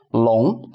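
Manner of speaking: 龙 with the pitch sliding up; second tone. Shown as a demonstration. Teacher demonstrating the word for dragon, 龙 in rising second tone. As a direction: say 龙 rising like a question. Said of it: "second tone".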